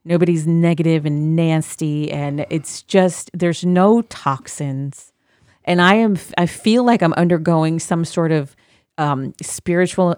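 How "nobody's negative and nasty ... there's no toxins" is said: Zen voice. Acted. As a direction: soothe them like a meditation guide. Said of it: "I was talking in my Zen voice".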